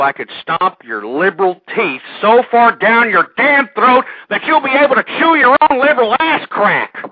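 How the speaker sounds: host losing his temper at Bob from Boston; hostile threat. Acted. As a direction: threaten him, then boil over. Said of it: "I'm getting a little hostile".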